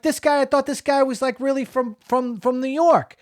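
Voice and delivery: high-pitched, incredulous reaction; retold astonishment. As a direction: act out stunned disbelief, pitch up throughout. Acting out his stunned reaction.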